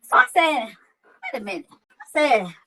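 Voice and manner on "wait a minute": very high, sudden alarmed "wait a minute"; retold alarm. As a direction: catch yourself mid-shock. Learning car was stolen.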